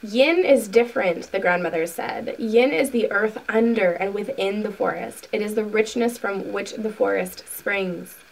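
deliberate reading with stressed key words; measured, emphatic book narration; book read-aloud. A narrator's reading. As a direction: read a spiritual teaching aloud, unhurried. Reads book passage aloud.

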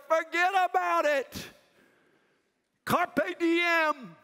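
rally the room from the pulpit; fired-up sermon to college students; preaching at full force. Acted.

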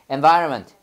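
"Environment" starting with EN, "en-VAR-ment"; easy EN pronunciation. Shown as a demonstration. Teacher modelling again for class, "Environment" as en-VAR-ment. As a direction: open "Environment" on E, keep the middle compact. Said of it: "N으로 발음하면 에에서 이해해봐".

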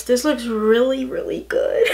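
hushed whisper of admiration; breathy secret compliment to the mirror. Real, not acted. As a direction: whisper it to yourself in awe. Admiring own makeup in mirror.

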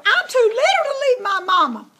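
high, loud whiny squeal with a laugh. A narrator's reading. Piglet begging mama to let him stay, high laughing squeal. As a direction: squeal and whine that you're too small. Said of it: "Oinky squealed".

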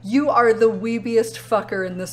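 loud laughing jab at a friend; laughing tease. Real, not acted. Streamer teasing chat member Potato, loud and laughing. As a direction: call him out while cracking up.

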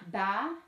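Banane in three spaced beats, BA - NA - NE; syllable by syllable. Shown as a demonstration. Teacher does it another time, Banane split into syllables. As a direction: break Banane apart, pausing after each syllable. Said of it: "Je vais le faire une autre fois".

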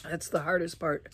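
quiet, breathless and strained; struggling to breathe. Real, not acted. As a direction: fight for breath as you talk. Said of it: "Trying to breathe".

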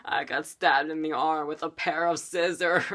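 hammed-up sobbing wail on the last word; mock bawling. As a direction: imitate bawling in pain. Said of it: "bawling my eyes out".

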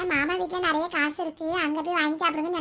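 put-on child's voice. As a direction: innocently pass on what Dad said. Child figure quotes father. (குழந்தைக் குரல்)

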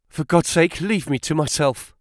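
the restraint bursts, let it out; desperate outburst. A narrator's reading. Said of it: "shot out of him".

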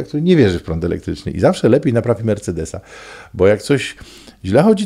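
ordinary talk

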